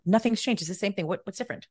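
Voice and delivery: mildly indignant retold complaint; a touch of exasperated disbelief; upset protest. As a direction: argue the point in mock outrage. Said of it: "I was so upset that they raised their prices".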